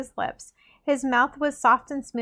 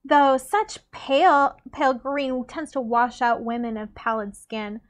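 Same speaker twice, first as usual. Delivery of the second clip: catty sweetness; slower than usual. Acted. Catty compliment, slow.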